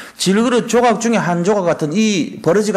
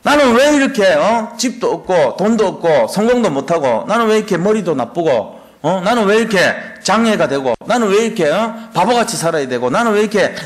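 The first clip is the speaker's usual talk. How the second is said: mock self-pitying rant; 3 semitones higher than usual. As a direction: pour out complaints like a sulking child. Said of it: "따지는 거란 말이에요". (신세 한탄하며 높고 크게 따지기)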